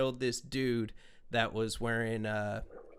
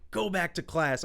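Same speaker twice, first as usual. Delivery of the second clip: mock angry dad; 5 semitones higher than usual. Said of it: "gets even more mad".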